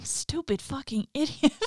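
slow gasping ghost whisper, rising at end; eerie whisper. Acted. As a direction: gasp it out like a creepy ghost. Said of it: "he gasped, quick and stuttering".

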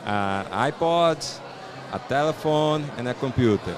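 slow English quote, Jobs style; imitating Steve Jobs. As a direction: mimic a keynote presenter. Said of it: "aí ele falava assim". (imitando Steve Jobs)

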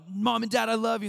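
put-on high, loud kid's declaration; mock child affection. Child declaring love to Mom and Dad, mock gushing. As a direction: gush at the parents, hammed-up.

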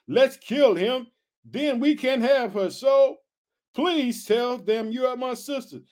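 measured read-aloud of a Bible story; scripture reading. Acted. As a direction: read it out deliberately, stretching the phrases.

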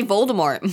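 "Voldemort" with a long O; movie pronunciation. Shown as a demonstration. Friend quoting how films say it, "Voldemort" as VOLE-de-mort. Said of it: "What do they say in the movie?".

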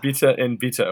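New Zealand accent, "Bitter" with a clipped short i. Shown as a demonstration. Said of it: "In a New Zealand accent".

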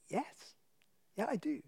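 soft, hushed yes under threat; said quietly. Retold or imitated. Telling mugger he trusts God, answering softly. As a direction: answer softly with a knife at his stomach. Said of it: "I just said quietly".

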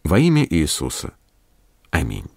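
calm earnest prayer voice. Acted. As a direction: pray it steadily and sincerely. Prayer after sermon. (молитвенно)

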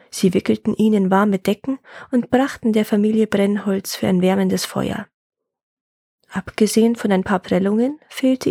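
measured folk-tale narration; story narration. A narrator's reading. Telling a woodcutter's folk tale, story narration. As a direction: read it as a tale for listeners.

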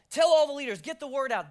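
high, loud mock command; mock rallying call. Pastor imagining a grand announcement, mock loud. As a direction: bark it out like a herald.

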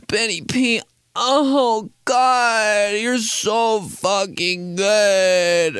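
high, very slow moaning voiceover; sultry DJ drop. Pretend. Host imagining a sexy DJ drop for himself. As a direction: breathe it out like a seductive DJ drop. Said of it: "they always have one that's like".

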